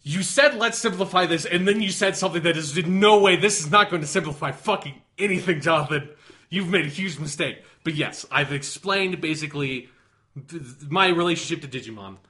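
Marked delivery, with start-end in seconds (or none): 0.0-7.6 loud, raised-pitch indignation; exasperated outburst. Real, not acted. Fan berating co-host for asking him to simplify, loudly exasperated. Mock outrage at co-host's request.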